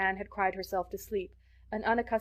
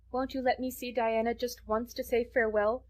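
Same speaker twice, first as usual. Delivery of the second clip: a mild, higher plea; imploring; 4 semitones higher than usual. Acted. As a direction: gently beg one last favour. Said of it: "she implored".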